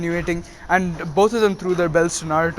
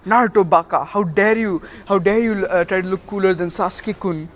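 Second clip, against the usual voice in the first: lightly acted indignant telling-off; mock scolding. Girl defending Sasuke to Naruto, mock scolding. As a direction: imitate an indignant scolding, pitch lifted a little.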